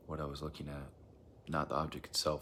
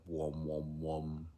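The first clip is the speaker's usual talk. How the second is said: imitated subwoofer throb, at usual pitch; subwoofer imitation; much slower than usual. Describing a strange noise heard, imitated subwoofer wom. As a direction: mimic a pulsing bass hum. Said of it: "like a subwoof".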